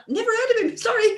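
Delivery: high, laughing brush-off; laughing apology. Retold or imitated. Unfamiliar with football stars, laughing and high. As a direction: shrug it off with a laugh. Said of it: "I'm like".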